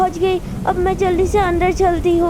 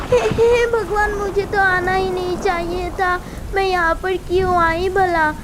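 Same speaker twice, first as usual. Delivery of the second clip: frightened in a storm. Acted. Daughter-in-law caught in storm.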